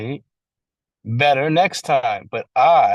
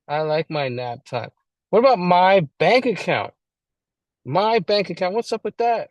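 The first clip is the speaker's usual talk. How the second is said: mock indignation; 5 semitones higher than usual. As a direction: play the self-centred grump, a bit hammed-up. Mocking the selfish alcoholic's complaints.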